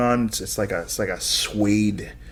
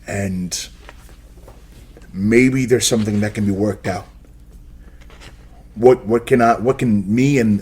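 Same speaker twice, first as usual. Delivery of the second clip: louder, mildly angry sheriff with effort at respect; restrained angry sheriff; 4 dB louder than usual. Acted. Sheriff bargains with seneschal for boy's freedom, restrained anger. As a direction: push back firmly, anger held in. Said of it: "this palpable rage grow from him".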